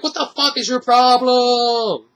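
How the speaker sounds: high-pitched, slow, incredulous disbelief; mock-baffled outburst at the screen; exasperated. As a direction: demand to know what her problem is. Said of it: "I'm like".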